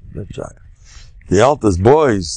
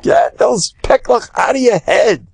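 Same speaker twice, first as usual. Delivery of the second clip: rally the crowd to lighten up; real enthusiastic push; fired-up exhortation; 13 semitones higher than usual. Real, not acted. Exhorting listeners to enjoy life.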